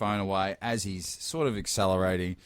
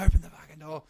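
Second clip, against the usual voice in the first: louder, higher insistent order; retold raised voice; 7 semitones higher, 5 dB louder, faster than usual. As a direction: re-enact an exasperated demand to get out. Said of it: "time I raise my voice".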